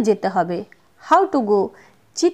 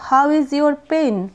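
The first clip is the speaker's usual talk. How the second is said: How is your pain said very slowly; slow classroom model; slow demo; much slower than usual. Shown as a demonstration. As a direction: lay each word out for the learner. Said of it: "তো বলবো".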